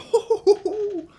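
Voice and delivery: high squealing laugh of joy; squeaky high laugh. Real, not acted. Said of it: "I sounded like Mickey Mouse".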